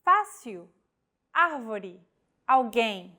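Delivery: Fácil, árvore, alguém stressing the vowels with the acute accent; Portuguese stress demo. Shown as a demonstration. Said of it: "stressed vowel in a word".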